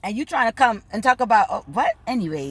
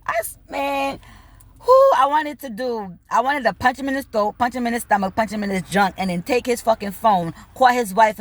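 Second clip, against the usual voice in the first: heated, raised rant; real anger; 3 semitones higher than usual. Real, not acted. To the listener, heated rant about punching the cheating man. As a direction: let the anger boil over. Angry venting about him.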